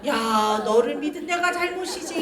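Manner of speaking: drawn-out mock reproach; insulting mother. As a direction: lament at the child in a lightly acted singsong. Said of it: "막 애를 막 모욕해요".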